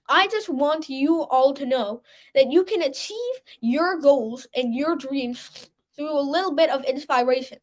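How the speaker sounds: blocked nose, sick voice; speaking through a stuffy nose. Real, not acted. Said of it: "please excuse my nose".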